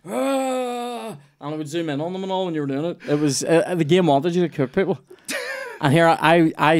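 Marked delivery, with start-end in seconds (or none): 0.1-1.2 imitating a man on fire; a short pained ah, played up; mock burning groan. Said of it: "just stand there going".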